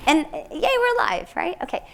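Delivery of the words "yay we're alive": high, laughing yay; laughing cheer. Retold or imitated. Retelling the couple's morning cheer with a laugh. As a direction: giggle through a gleeful yay.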